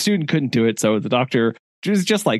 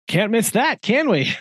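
high teasing doctor voice; 9 semitones higher than usual. Retold or imitated.

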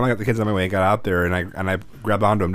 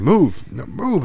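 put-on urgent yell to the kids; 7 semitones higher, 3 dB louder, much slower than usual. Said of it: "And I'm like".

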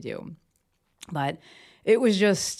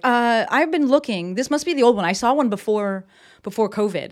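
lightly voiced mom; 4 semitones higher, 5 dB louder than usual. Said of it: "and she was like".

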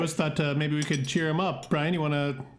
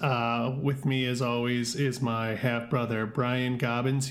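podcast host intro; slower than usual. Acted.

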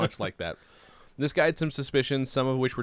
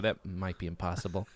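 ordinary delivery

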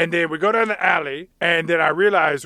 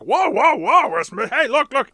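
higher, hammed-up panicked whoa; mock alarm; 9 semitones higher, 3 dB louder than usual. Orc cop facing partner's gun, hammed-up panic. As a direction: back off a drawn gun. Nick the Orc pleads at gunpoint.

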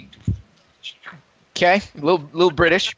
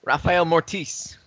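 dramatic name; 3 semitones higher, slower than usual. Shown as a demonstration.

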